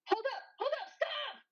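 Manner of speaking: loud, high urgent shouts; shouting stop. Acted. Calling after a man who bolts, loud urgent shout. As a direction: yell at him to stop now. Someone stops a fleeing man.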